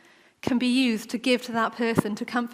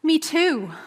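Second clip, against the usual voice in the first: relieved recognition; 4 semitones higher, slower than usual. Acted. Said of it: "that feeling of".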